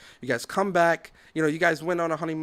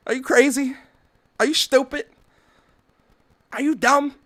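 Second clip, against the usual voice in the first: incredulous scolding; 8 semitones higher, 5 dB louder than usual. Real, not acted. Ranting at the brother.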